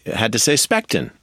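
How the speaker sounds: put-on light Cuban accent on Spectin; Desi's Cuban accent. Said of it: "So he said in his wonderful accent".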